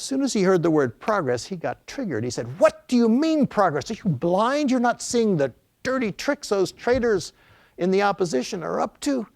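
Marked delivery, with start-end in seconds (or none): 2.6-9.3 raised, higher-pitched imitated anger; mock the president blowing up; indignant retold rant, pitch up; retold furious outburst. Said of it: "he proceeded to get furious".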